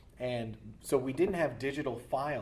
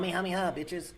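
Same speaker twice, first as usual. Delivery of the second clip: mock attack shout; 6 semitones higher than usual. Voice actor spoofs signature attack.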